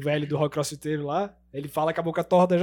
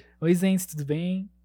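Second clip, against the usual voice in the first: female character voice; 3 semitones higher than usual. Showing, when asked, the woman's voice used in dubbing: put-on woman's voice. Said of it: "Faz a voz da mulher aí".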